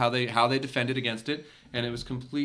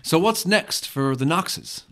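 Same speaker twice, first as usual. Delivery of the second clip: interviewer voice; 3 semitones higher, slower than usual. Acted. Interviewer opens scripted scene.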